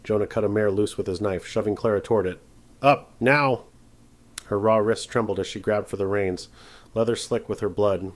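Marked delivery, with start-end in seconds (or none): 2.8-3.6 urgent shout. Acted. Jonah urging Clara onto horse.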